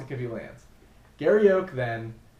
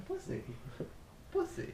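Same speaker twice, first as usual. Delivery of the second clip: squeaky high Blissey call; Pokemon cry; 14 dB quieter than usual. Pretend. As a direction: chirp the name like a Pokemon.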